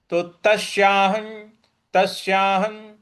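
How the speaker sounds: तस्याहं closing on a clear n; anusvara as n. Shown as a demonstration. Teacher modelling तस्याहं, ending on न. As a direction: intone तस्याहं, final sound held as न. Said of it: "इस प्रकार से बोलेंगे".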